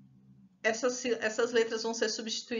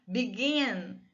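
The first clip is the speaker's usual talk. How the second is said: "Begin" with a strong, held "gin"; stress on final syllable. Shown as a demonstration. Teacher showing the strong syllable, "Begin" stressed on "gin". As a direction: lean on the second syllable of "Begin". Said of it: "a sílaba forte é o gin".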